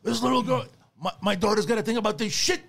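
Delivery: very high, lightly mocking mother's voice; upset mother. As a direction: imitate the mother complaining about her daughter. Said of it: "Sylvia's like".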